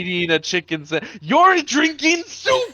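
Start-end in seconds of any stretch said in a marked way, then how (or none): 1.2-2.7 laughing. Real, not acted. Teasing friend about soup.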